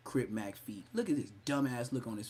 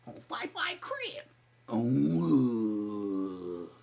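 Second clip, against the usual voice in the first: mock gang call; 2 semitones lower, much slower than usual.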